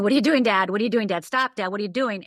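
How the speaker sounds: teenage daughter yelling at her dad with the gun, mock panic; retold scream. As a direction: relive the girl yelling at her father, half-voiced. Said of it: "And I start screaming".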